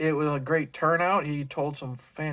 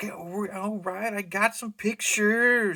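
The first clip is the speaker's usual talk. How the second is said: put-on very slow, high, childlike little-kid delivery; 5 semitones higher than usual. Retelling how a man answered about pictures, the speaker mimics him like a little kid. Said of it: "like a little kid. ... he said it like that".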